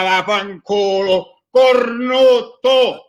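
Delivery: explosive italian cursing. Acted. Poem ends in sudden insult.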